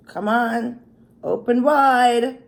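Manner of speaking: loud, slow coaxing; coaxing feeding voice. Pretend. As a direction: coax like feeding a child. Offering a bite to camera.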